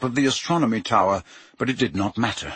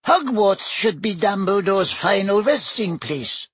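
high, squeaky little professor; 9 semitones higher than usual. A narrator's reading. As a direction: squeak it out, tiny and fussy. Flitwick voiced.

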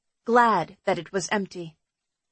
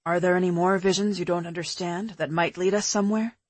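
put-on lower, relaxed boyfriend voice; man's voice; 4 semitones lower than usual. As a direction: drop lower for a calm man. Pete's dialogue, lower voice.

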